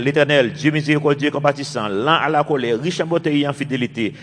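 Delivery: preacher reading Exodus aloud to the church, solemn; scripture reading. Acted. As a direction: read the verses out like scripture to the congregation. Reads Exodus passage aloud.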